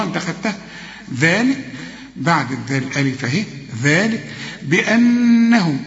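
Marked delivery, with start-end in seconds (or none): 3.8-5.8 slow ذلك بأنهم, the doubled nun held; slow recitation. Shown as a demonstration. Teacher models the doubled nun, slow. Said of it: "النون أهي جت لنا تاني".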